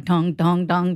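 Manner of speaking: heavy "dong" beats, lightly voiced; imitated entrance music. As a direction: mimic a film hero's swagger theme. Mimicking hero's entrance music.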